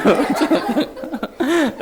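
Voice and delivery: long open laugh. Real, not acted. Pastor laughing about leaving for school, real laughter.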